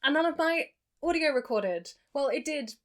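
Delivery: echoey attic room sound; recorded in an echoey attic. Real, not acted. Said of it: "very echoey audio that comes as a result of filming in an attic".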